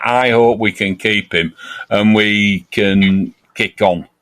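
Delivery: sincere. Real, not acted. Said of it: "Hand on heart".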